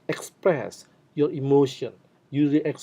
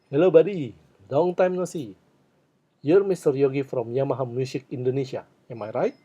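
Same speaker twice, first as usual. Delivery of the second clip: friendly greeting; faster than usual. Shown as a demonstration. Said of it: "these are the expressions you can use".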